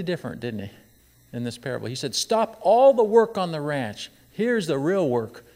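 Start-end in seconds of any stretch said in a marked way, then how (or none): 2.1-5.4 louder, slow proclaiming father; father's command. Retold or imitated. Preacher voicing the father halting the ranch, a slow loud command. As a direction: call the whole ranch to stop.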